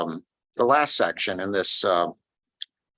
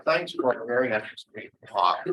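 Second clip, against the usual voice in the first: a bit more projected thanks; speaking up; 3 semitones higher than usual. Real, not acted. Questioner repeats his thanks after being asked, speaking up. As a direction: repeat it so the room can hear. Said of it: "Kurt, can you speak up?".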